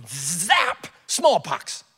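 sudden zap, then a pronouncement; abrupt comic decree of doom; divine smiting. Acted. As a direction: zap them like an irritated God. God smiting blondes in anger.

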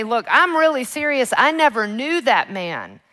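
loud, high-pitched acted protest; vehement cursing denial. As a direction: hurl the denial down, hammed-up. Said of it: "Peter hurls down cussing and cursing".

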